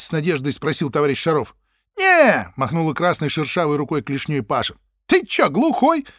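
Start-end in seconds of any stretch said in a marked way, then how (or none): 2.0-2.5 loud dismissive no. Acted. Паша отмахивается. 5.1-6.1 high, slow, scornful jab; rude mock. Паша грубо.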